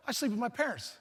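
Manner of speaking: put-on high-pitched small child voice; little kid admitting. Kid answers friend's mother, high childlike confession.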